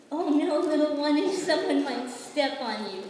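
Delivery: urgent worried warning. Acted. Princess worried for tiny guest.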